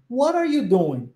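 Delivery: What are you doing said with stress on are; English model phrase. Shown as a demonstration. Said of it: "E aí vem a pergunta".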